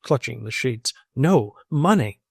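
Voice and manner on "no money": wailing. A narrator's reading. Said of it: "wailed the squire".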